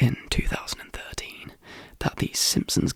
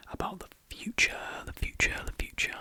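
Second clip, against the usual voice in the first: spooky echo; 5 dB quieter, faster than usual. Pretend. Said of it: "spooky echo on future".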